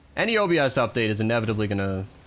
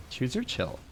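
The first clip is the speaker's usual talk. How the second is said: lisping sassy voice; 2 semitones higher, 7 dB quieter than usual. Retold or imitated. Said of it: "with that lisp".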